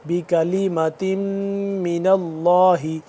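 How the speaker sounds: measured Quranic recitation with ghunna; tajweed recitation. Shown as a demonstration. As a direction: chant بکلمت with a long nasal hum on the م. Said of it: "اس پہ ہم غنہ کریں گے".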